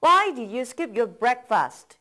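slow, clear model sentence; slow model reading. Shown as a demonstration. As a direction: read it out slowly for learners to copy. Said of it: "다음입니다".

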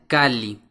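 "cali" with two separate L sounds, cal-li; double L separated. Shown as a demonstration. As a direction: hold and split the L in "cali". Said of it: "como si fueran dos Ls por separado".

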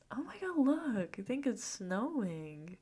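light up at the first snow; excited surprise. Acted. Sees snow out the window.

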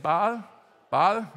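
Baal with an open a, as "bahl"; checking the pronunciation. Shown as a demonstration. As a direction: try out "Baal" as one open-vowel syllable. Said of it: "apparently that's how you say it".

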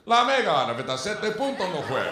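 radio announcer. Retold or imitated. Imitating Spanish radio announcer.

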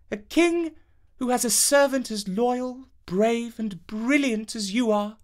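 high, gracious princess voice. Acted. Princess praising loyal Avenant, high and gracious.

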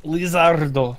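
lightly put-on Spanish accent. Gamer naming the lizard boss, mock Spanish accent. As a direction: say it with a Spanish lilt. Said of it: "I said it with a Spanish accent".

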